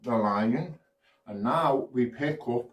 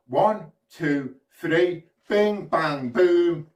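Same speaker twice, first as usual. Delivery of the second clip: magic countdown; 4 semitones higher, 4 dB louder, slower than usual. Acted. Magic words for kids.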